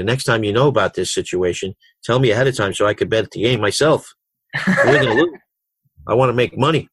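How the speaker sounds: half-laughing joke, ribbing him; joking to the translator. Retold or imitated. Coach jokes to his translator about betting, laughing. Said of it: "jokingly I said to the translator".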